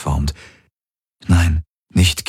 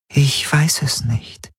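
higher and slow, unsure; a fading spirit admits she doesn't know; uncertain spirit; 8 semitones higher, slower than usual. A narrator's reading. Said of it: "sagte sie".

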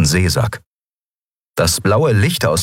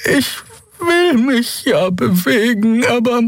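frightened; slower than usual. A narrator's reading. Xea frozen with fear.

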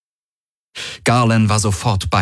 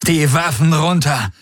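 raised-pitch commanding bark; barked order; 7 semitones higher than usual. A narrator's reading. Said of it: "bellte Tari".

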